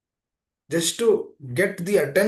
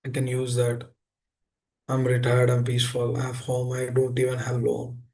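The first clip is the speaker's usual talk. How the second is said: lower, a smug, satisfied retiree listing his comforts; complacent retiree; 5 semitones lower than usual. Retold or imitated. Preacher voicing a retiree with savings and no loans, lower and self-satisfied. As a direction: speak as a content man who needs nothing more, voice dropped.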